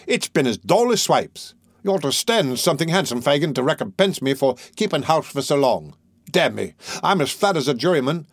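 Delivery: Toby complaining to Fagin about the dull evening, swaggering; swaggering Toby Crackit. Acted. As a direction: grumble like a bored dandy thief.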